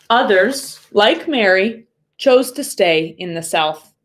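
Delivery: steady storybook reading voice; story narration. Acted. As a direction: read it to the class, gently paced. Reads the picture book aloud.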